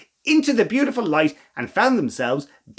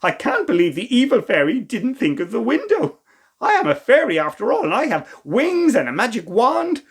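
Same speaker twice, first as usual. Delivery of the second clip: cheerful; 6 semitones higher than usual. Acted. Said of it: "giggling and pointing towards the window".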